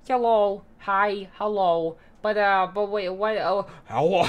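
high, loud silly greeting; a hammed-up cheery hello; goofy voice.

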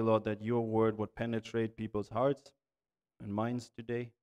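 earnest, even-toned prayer with long pauses. Real, not acted. Preacher praying to the Lord for discouraged listeners, earnest measured prayer. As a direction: pray in measured phrases, pausing between petitions.

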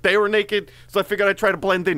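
lightly done bad Brooklyn accent; a hint of New York guy. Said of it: "a very bad Brooklyn accent".

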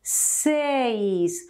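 Seis with two vowel sounds, e then i; careful seis. Shown as a demonstration. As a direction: sound out Seis slowly for learners. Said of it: "remember to pronounce correctly this number".

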